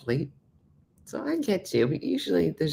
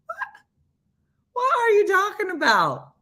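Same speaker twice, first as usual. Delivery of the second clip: high, breathless laughing question; laughing disbelief; 4 dB louder than usual. Real, not acted. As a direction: ask through tears of laughter. Still laughing at the photo.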